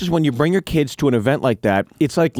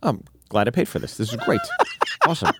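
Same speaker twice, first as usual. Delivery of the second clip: bitter mock cheer, laughing; sarcastic partner; faster than usual. Voicing the partner who paid for the trip, sarcastic.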